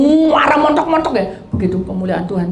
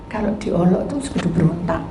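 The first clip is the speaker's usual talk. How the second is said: ordinary delivery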